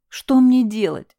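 high, slow panicked plea; hysterical. Acted. Husband panicking over his wounded wife, hysterical. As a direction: lose control in panic. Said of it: "впал в истерику".

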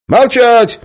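very loud, high yell; shouting silence. Acted. Guard yells at prisoners to be silent. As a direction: yell to shut them up. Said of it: "опомнился конвоир".

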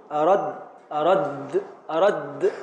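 "أرد" with the dal doubled and closed; pronunciation demo. Shown as a demonstration. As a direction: say "أرد" as heard, ending on a vowelless dal. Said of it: "في النطق".

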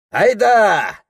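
loud high bark of an order; the chief calls his gang off; commanding shout. Acted. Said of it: "скомандовал Пехтель".

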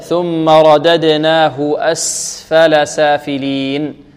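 very slow, measured tajweed recitation; intoned teaching recitation; Quran recitation drill. Shown as a demonstration. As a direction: draw out each syllable for students to copy.

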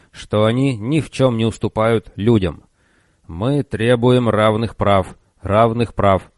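slow, grating robot voice; grinding robot voice. Acted. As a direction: grate it out like rusty metal. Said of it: "заскрежетал он".

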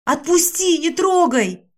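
high, loud panicked cry; terrified scream. A narrator's reading. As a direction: scream to be let go in fear. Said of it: "я от страха закричала".

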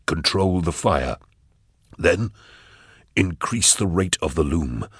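lightly voiced, measured schemer; grave, obsessed Eisenhorn. Voices Eisenhorn laying out the plan.

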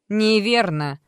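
loud, high mocking no; grimacing retort. Alter ego contradicting the doctor, mocking. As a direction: pull a face as you say it. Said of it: "скорчила рожицу девушка".

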